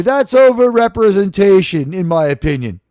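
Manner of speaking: mock outrage. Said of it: "purposefully and ironically ignorant".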